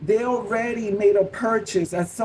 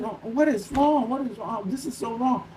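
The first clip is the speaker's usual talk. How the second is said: high-pitched, hushed fretting; getting nervous; 4 semitones higher, 3 dB quieter than usual. Retold or imitated. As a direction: mildly act out growing nerves. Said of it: "I start getting more nervous".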